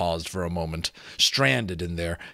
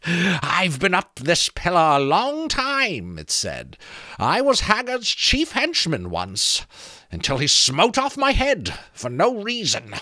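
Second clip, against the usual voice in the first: creaking skull voice; 9 semitones higher, 4 dB louder than usual. A narrator's reading. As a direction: creak out the offer like a teasing sentry. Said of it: "sounded like branches creaking".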